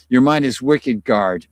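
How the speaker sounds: reading it in a thick Boston accent. Shown as a demonstration. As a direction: say it like a Boston local, dropping the r's. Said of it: "Boston accent".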